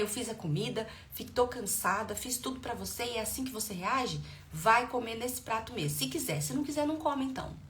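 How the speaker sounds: mock parental telling-off; scolding parent. Shown as a demonstration. Tired parent scolding child over refused plate, firm. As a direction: act out a parent laying down the law. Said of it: "É assim que eu tinha que ter feito?".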